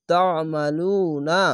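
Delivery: slow তা আমালু না with লু held; long vowel. Shown as a demonstration. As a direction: draw out the u in আমালু. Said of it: "এক আলিফ টেনে পড়বেন". (আমালু-র লু এক আলিফ টেনে)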